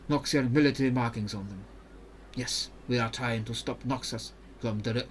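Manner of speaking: put-on careful, even-toned Ionian accent; Mirim, Ionian accent. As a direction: explain the mission in a measured Ionian accent. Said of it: "This voice is also not very good for my throat".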